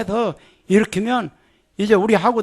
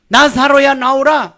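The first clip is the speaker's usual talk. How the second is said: slow, high, loud call; slow command; 6 semitones higher, 6 dB louder than usual. Shown as a demonstration. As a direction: stretch out every word of the command. Repeats command slowly.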